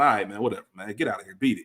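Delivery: low-pitched, offhand brush-off; laid-back, nonchalant. Acted. Friend brushing off a buddy's excuses, nonchalant. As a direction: wave them away casually, voice dropped low. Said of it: "we kinda got that laid back, nonchalant".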